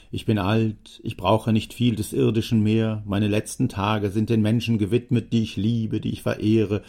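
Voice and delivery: a lightly voiced talkative old man; old Jammer. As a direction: let a chatty old man ramble on fondly.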